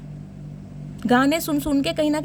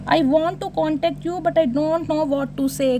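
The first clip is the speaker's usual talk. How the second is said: slow reading; much slower than usual. Shown as a demonstration. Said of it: "reads card message slowly".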